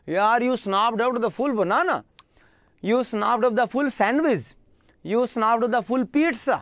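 each example drawn out for learners; slow and deliberate, teaching the word in use; teacher slowly models casual usage; slow example sentences. Shown as a demonstration. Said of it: "आप ऐसे बोलते हो".

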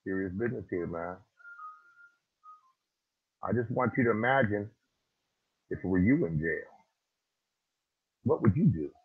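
low, soft, winded; catching breath. Real, not acted. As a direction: speak quietly after the shouting. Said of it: "Let me catch my breath".

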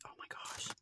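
breathless awed whisper; whispered oh my gosh. Real, not acted. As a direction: whisper it in delight at the gift. Delighted over survival kit.

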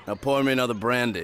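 a hint of dad at the television; lightly voiced dad. Coach imitating his dad watching a Christmas film, slight impression. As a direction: lightly imitate your own father ordering a drink. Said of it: "That's my dad".

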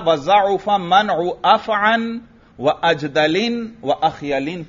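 measured tanween reading, अख़यलिन ending in n; munsarif reading. Shown as a demonstration. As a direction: give अजदलिन and अख़यलिन their -lin endings. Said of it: "उसी तरह पढ़ेंगे जैसे".

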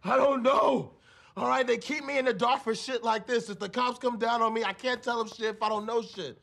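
desperate pleading. Acted. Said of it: "that was relatively convincing".

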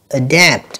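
adapt slowly, stressing DAPT; stress on second syllable. Shown as a demonstration. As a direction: lean gently on the end of adapt. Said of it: "còn lại là âm thứ hai hết".

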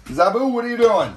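high, loud playful question; pet-talk question. Real, not acted. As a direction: ask the lemur in a high voice. Calling pet lemur.

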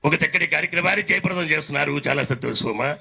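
lightly voiced politician's address; a hint of a leader congratulating the organisers; Rajasekhara Reddy. Mimic showing how the leader thanks an event, light impression. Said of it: "Rajasekhara Reddy గారు మాట్లాడితే".

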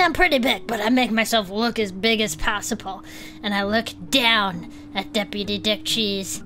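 usual speaking voice

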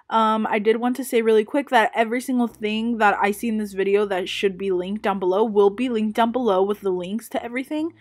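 heavy breathing into the mic; breath audible between words. Real, not acted. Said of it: "I'm so sorry for the breathing in this video".

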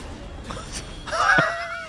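high screaming laugh; shrieking laugh. Real, not acted. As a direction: burst into a shrill shriek of laughter. Laughs at forgotten mechanic.

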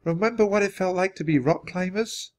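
lightly voiced, high and gentle; soft voice. A narrator's reading. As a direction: gently coax a hurting companion. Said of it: "Annie called to him in a soft voice".

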